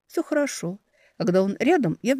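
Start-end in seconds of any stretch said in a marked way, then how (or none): 0.1-0.8 gentle echo; echoing reply. Acted. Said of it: "эхом отвечая".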